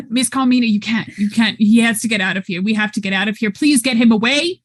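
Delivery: put-on pleading in a British accent; urgent British-accented plea, rising at the end. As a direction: beg with a patchy Cockney accent. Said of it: "I forgot he had a British accent".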